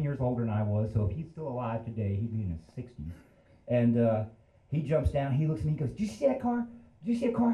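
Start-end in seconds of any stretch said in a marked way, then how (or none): 5.9-7.5 high-pitched, agitated demand, acted out; imitated urgent questioning. Storyteller as crashed driver asking a witness, agitated. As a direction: play the frantic driver seeking a witness.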